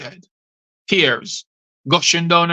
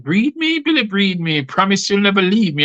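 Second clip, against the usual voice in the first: high, pleading lover's voice, much higher on the first words; mock breathy moaning lover; 3 semitones higher than usual. Poet mimics the wife pleading with Billy, high mock moan. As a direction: ham up a woman begging her lover. Wife's moaning plea during sex.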